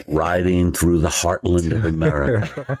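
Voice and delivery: lightly voiced epic trailer voice; road-trip self-narration done as mock trailer; mock dramatic narrator. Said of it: "doing this stream of consciousness".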